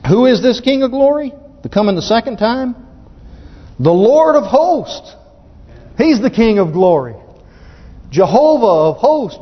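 real excitement, ringing out the verse; excited preaching. Real, not acted. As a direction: proclaim scripture with rising, high-pitched excitement. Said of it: "I tell you, it's exciting".

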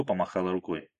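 usual speaking voice

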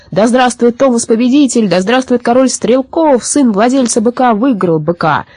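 sustained high acclaim; celebratory calls held high; jubilant crowd cheering. A narrator's reading. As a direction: hail the winner like a crowd. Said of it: "закричали в толпе".

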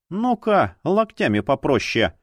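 mildly put-upon protest; complaining. Acted. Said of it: "пожаловалась Зора".

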